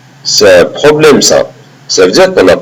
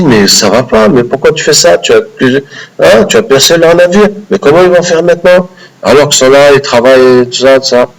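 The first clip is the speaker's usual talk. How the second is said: indignant protest; 5 semitones higher than usual. Acted. Moussa protests the ship being holed.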